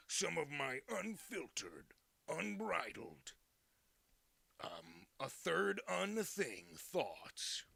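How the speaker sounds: slow breathy whisper. Pretend. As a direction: whisper it slowly, secretive. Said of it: "your unfiltered thoughts".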